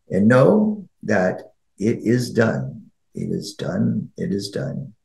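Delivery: measured meditation voice with long pauses; guided meditation. Acted. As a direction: guide listeners inward in unhurried phrases, letting the closing words soften.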